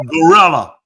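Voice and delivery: GORILLA said loud with an English "ell" in the middle; English-style gorilla. Shown as a demonstration. Host insists on his own word, loud English pronunciation. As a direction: punch out "guh-RELL-uh". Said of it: "What am I saying?".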